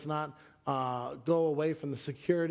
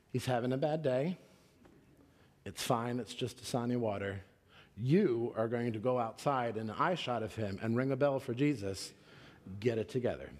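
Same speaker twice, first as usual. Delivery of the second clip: lower, settling self-talk; restrained pep talk to oneself, sinking in pitch; retold self-calming; 3 semitones lower than usual. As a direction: talk yourself down after a breath. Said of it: "And I took a breath".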